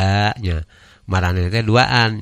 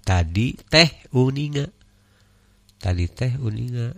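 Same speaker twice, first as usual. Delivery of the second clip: "tadi teh uninga" higher-pitched, with "teh" standing out; intonation demo; 4 semitones higher than usual. Shown as a demonstration. Teacher echoing the reader to correct the tune, "teh" lifted. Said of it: "kirang ieu ya dina intonasina".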